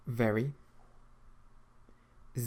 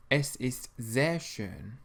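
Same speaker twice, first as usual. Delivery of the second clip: slow model answer; slower than usual. Shown as a demonstration. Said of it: "how would you say in German".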